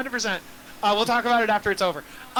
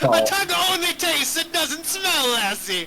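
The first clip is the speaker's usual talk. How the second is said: pirate voice; 4 semitones higher, 5 dB louder than usual. Acted. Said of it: "talking like a pirate".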